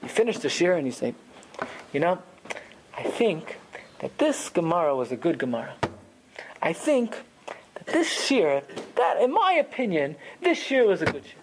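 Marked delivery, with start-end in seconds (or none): 1.9-11.4 calm, considered assessment; deliberate, even appraisal; matter-of-fact. Shown as a demonstration. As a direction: weigh it up like a judge's verdict. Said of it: "saying it matter of fact".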